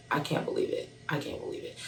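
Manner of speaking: hushed, stunned whisper; whispered disbelief. Retold or imitated. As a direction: breathe it out in awe. Stunned the dates match.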